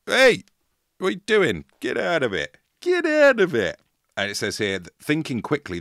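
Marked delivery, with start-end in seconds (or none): 0.1-3.8 loud, high mock yell of Oi, get out of it; retold shout. Man at the pool yells at the attacker, high mock shout. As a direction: shout them off like a hero at the pool. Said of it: "So he shouted".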